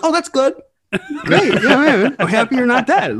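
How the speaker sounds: high, laughing mock relief. Stranger learns Seth Rogen is alive, laughing relieved gush. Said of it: "He's like".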